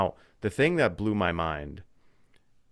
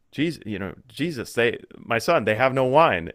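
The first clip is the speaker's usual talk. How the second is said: voicing Mary; 4 semitones higher, 5 dB louder than usual. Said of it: "she's like".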